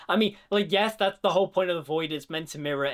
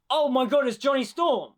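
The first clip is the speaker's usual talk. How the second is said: mock excited gasp; 8 semitones higher, 4 dB louder than usual. Mock fan reaction to reveal.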